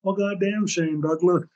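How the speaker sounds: half-amused mock of Terry swearing; imitating Terry. Friend Terry reacting to the news, lightly voiced exclamation. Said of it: "He goes".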